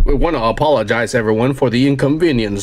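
low, formal PA announcer impression; deep, stiff apology over the loudspeaker. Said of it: "the announcer's being like".

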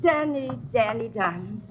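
put-on high, fond old woman's voice; a lightly voiced old flower woman calling her darling; old flower seller. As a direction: coo it like a doting old flower lady.

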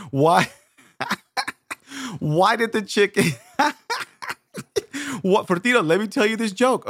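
hammed-up laughing fit between words; sister laughing. Sister trying to tell her brother a joke, laughing. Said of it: "you're just laughing".

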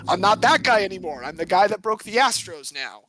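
a hint of a tough twenties mobster, see; 1920s gangster. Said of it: "Nineteen twenties gangster Mike Fears".

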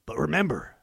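spoken country twang over rock lyrics; country accent. Pretend. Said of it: "I'll do it in a country accent".

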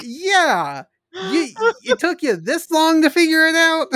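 laughing mock disbelief. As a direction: crack up while mocking them. Mocking the heroes, laughing.

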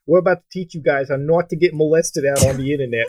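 lightly voiced Italian accent; a hint of a New York Italian youtuber. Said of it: "Italian accent of his".

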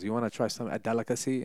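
imitated African woman's accent; African-accented mimicry; put-on African accent. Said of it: "I don't know why I'm doing the accent".

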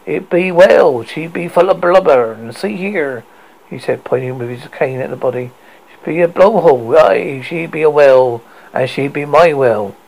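a hint of a gruff sea captain; grizzled captain. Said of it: "Ahab cried".

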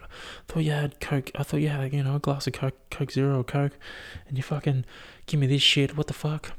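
lightly acted indignant quote; imitating aggrieved girlfriend. Imagined girlfriend's accusing complaint.

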